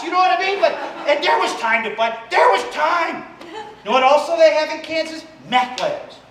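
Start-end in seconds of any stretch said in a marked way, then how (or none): 2.3-3.2 shouted emphasis. Acted. Insisting to the crowd, a high shouted There was time.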